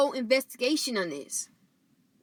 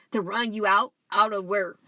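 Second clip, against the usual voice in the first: burping; 2 semitones lower than usual. Real, not acted. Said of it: "excuse me, I'm burping".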